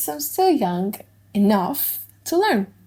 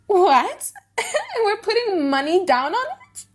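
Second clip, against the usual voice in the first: surprised outcry; 9 semitones higher than usual. Acted. Nerissa hearing the baby bet, surprised and laughing. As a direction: jump in, caught off guard.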